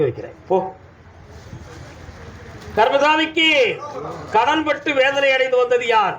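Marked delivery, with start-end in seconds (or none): 2.8-6.2 raised, searching call to the crowd; calling out a question. Acted. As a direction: call out who came in debt. Oracle calls out to the crowd.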